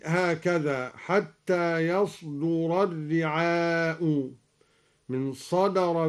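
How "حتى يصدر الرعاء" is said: "يصدر" said slowly as yasduru; fatha on ya, damma on dal. Shown as a demonstration. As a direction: draw it out, "يصدر" with a then u. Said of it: "بفتح الياء وضم الدال". (فتح ياء "يصدر" وضم الدال)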